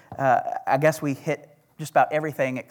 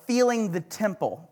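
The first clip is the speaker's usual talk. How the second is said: "filling" said like "feeling", Oklahoma accent; 3 semitones higher, 4 dB quieter than usual. Real, not acted. Preacher slipping while reading scripture aloud, Oklahoma accent. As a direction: let Oklahoma vowels turn "filling" into "feeling". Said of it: "That's my Oklahoma accent coming out".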